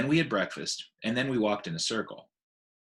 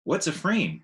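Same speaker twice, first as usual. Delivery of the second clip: put-on higher, wide-eyed child's question; curious little elephant; 7 semitones higher than usual. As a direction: ask it like a puzzled little elephant. Ruby the young elephant asks.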